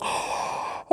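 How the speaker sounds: big breathy demo yawn. Shown as a demonstration. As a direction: sigh out a tired yawn. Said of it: "you're yawning".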